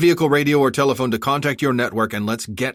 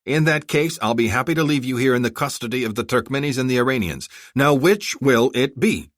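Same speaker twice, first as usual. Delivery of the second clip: stern ultimatum, raised and forceful; menacing, angry; 6 semitones higher, 4 dB louder than usual. A narrator's reading. Armored rescuer warning the bodyguards to choose, angry menace. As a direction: lay down the terms hard, pitched up. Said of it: "menacingly to emphasize his point".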